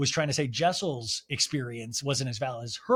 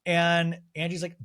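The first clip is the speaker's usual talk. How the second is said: normal talking voice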